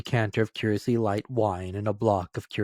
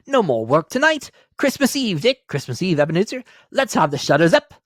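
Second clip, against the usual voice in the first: put-on a hearty old master calling his lads; fat jovial voice; 9 semitones higher, 8 dB louder than usual. Fezziwig calls his apprentices, jovial hearty call.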